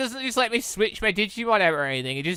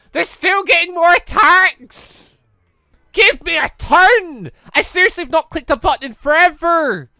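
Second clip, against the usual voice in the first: loud, high, slowed exasperated yell; frustrated shouting; 9 semitones higher, 8 dB louder than usual. Real, not acted. Gamer yelling at the enemy team that won't give him a turn, frustrated shout. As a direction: shout at the game, fed up. Enemy keeps taking turns.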